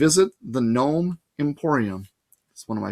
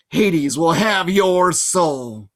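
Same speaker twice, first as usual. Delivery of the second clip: slow, louder monster threat; menacing Fury; 3 semitones higher, 4 dB louder, much slower than usual. A narrator's reading. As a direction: promise doom like a demon.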